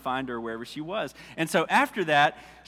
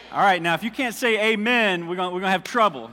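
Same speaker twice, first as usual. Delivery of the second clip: mock warning; 3 semitones higher, 4 dB louder than usual. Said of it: "No, I'm just kidding".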